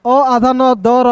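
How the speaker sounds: अ आधा न दर slowly, piece by piece; slow teacher's split of अनदर, opening on a separate अ; syllable-by-syllable breakdown. Shown as a demonstration. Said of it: "अंदर नहीं पढ़ेंगे".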